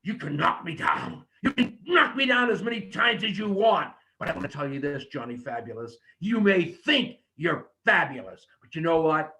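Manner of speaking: trash talk him, shout then hush; wrestling promo demo. Shown as a demonstration. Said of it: "so that when you tell me".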